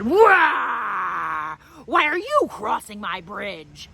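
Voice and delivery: mock troll roar, then a growled question. Troll leaping out to scare the goat, hammed-up roar. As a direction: pop up and bellow at the goat.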